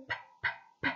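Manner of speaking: "p, p, p" voiceless puffs; whispered p sounds. Shown as a demonstration. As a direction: breathe out "p, p, p" unvoiced. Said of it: "avec la lettre P".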